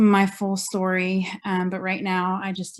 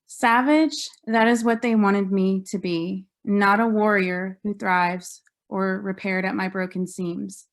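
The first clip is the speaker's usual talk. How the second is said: measured recital of a poem, phrase by phrase; poetry reading. Acted. Survivor reading poem from own book, measured poetry reading. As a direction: read your poem out with deliberate pauses.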